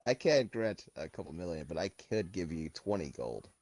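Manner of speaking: lightly voiced genie bargaining over a wish; genie act. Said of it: "act like a genie".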